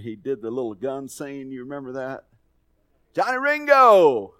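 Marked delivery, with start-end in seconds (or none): 3.1-4.3 long, high shout of a name; loud call-out. Acted. Preacher re-enacting a film scene, loud drawn-out call. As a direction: holler it out, drawing out the name. Calling out a movie line.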